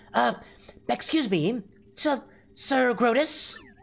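slow, high-pitched, robotic computer voice. Trying out voices, speaker attempts a combined computer-regular voice. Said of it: "computer regular voicey".

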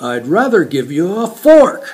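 acted, way too loud, rising blurted outburst. Retelling how Calvin answered a request for a chopsticks lesson, imitating Calvin's way too loud voice. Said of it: "in his way too loud voice".

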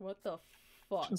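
mock, put-on, disdainful cat voice. Voicing what the cat thinks while it stares: voicing the cat's put-on disdain. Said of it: "she's looking at me with disdain".

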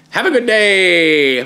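voice breaking, very slow and drawn-out. Signing off a video to viewers, voice cracking. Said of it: "My voice cracked there".

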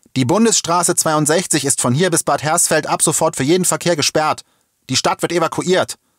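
high, loud yelling through a megaphone. A policeman with a megaphone addresses the jammed traffic, shouting through a megaphone. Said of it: "Einer hielt sich ein Megafon vor den Mund und schrie".

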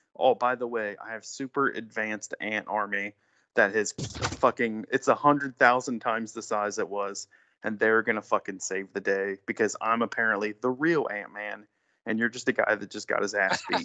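usual speaking voice

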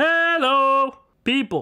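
very high, projected, room-filling, "hello" drawn out. Testing a microphone in the living room, projecting voice. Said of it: "I'm projecting a little more".

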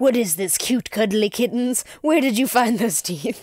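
acted, mild, lightly played roar, pitched high. Acting out a general seeing kittens: imitating a roaring general. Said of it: "The general roared".

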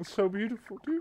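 put-on weepy, sobbing voice. Tasting a smoothie on a cooking show, mock crying. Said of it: "Oh my God, I'm crying".

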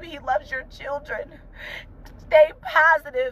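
tearful, crying while speaking. Speaker in mother mode, addressing you guys, crying while speaking. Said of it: "I'm sorry, I'm crying".

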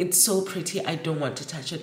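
usual speaking voice

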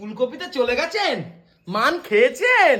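put-on teasing baby talk, high, slow, coaxing.

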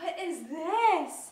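put-on surprised tone. Tasting a dish after being asked to act surprised, acting surprised. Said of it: "I'm gonna have her act surprised".

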